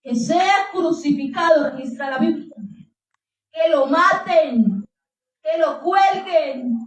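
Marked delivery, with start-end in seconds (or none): 0.0-1.7 drawn-out mob demand, only mildly raised; understated, stretched crowd cry; mock crowd shout. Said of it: "gritaban aún más fuerte diciendo". 3.5-6.8 long stretched mob chant, acted without full volume; slow, insistent imitation of shouting; mock crowd shout. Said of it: "gritaban aún más fuerte diciendo".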